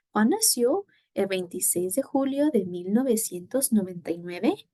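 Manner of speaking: upward lift on "nació" and on "nueve"; rising question intonation. Shown as a demonstration. Teacher modelling the question for students, rising intonation. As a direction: ask it, with "nueve" going up at the end. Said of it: "it goes up because it's a question".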